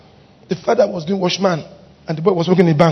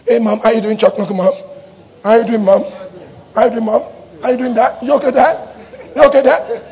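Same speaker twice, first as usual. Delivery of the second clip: mocking casual greeting. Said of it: "Don't do high five and chalk knuckle".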